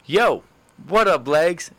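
high, cocky pickup line; smooth pickup line. Retold or imitated. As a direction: toss it off like a confident player. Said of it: "picked up a girl easy like this".

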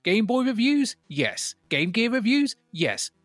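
put-on lively read-out of a listener letter, no accent; reading a letter aloud. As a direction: perform the letter with cheeky emphasis.

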